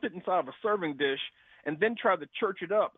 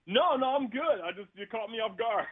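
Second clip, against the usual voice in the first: on speakerphone; 6 semitones higher, 3 dB louder than usual. Real, not acted. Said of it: "It sounds like you're on speakerphone".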